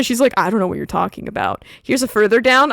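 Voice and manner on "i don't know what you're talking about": low, fast mock innocence; dismissive denial. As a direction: imitate her brushing him off quickly. Acting out girl brushing off question.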